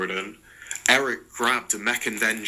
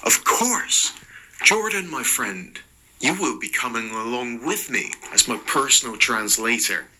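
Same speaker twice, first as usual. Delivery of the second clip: gleeful; 2 semitones higher than usual. Acted. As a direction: bounce in with glee. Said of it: "Mark bounded with glee".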